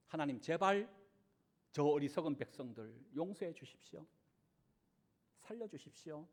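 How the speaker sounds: soft, low begging plea to God; earnest pleading prayer. Acted. Preacher voicing Moses, hushed pleading. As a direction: Moses quietly begging God to spare the people. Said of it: "모세가 간절히 하나님 앞에 중보하였잖아요".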